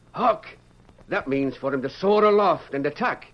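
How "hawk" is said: mock shout. Shown as a demonstration. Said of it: "you remove his hood and shout".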